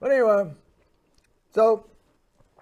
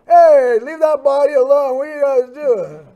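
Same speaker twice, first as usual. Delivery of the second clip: loud, high-pitched call across the room; raised-voice acted scolding; nurse's shout; 5 semitones higher, 9 dB louder than usual. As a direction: shout out like a nurse telling people off. Retold nurse calling out in alarm.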